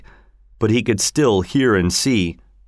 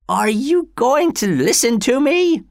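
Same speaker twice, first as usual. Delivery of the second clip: put-on old father voice. A narrator's reading. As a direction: voice the frail father, rising.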